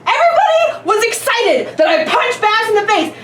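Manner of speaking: hotheaded shouting. Real, not acted. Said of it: "you sound like a hothead right now".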